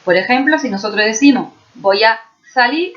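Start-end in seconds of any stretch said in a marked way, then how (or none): 1.7-2.9 "Voy a salir" with the S lisped as TH; ceceo. Shown as a demonstration. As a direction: lisp the S of "salir" as TH. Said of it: "pues estoy ceseando". ("Voy a salir" con ceceo)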